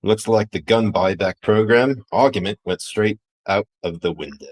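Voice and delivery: put-on half-hearted Australian accent; badly faked Australian accent; Aussie accent. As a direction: attempt an Aussie accent without fully committing. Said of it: "trying to do a fucking Aussie accent".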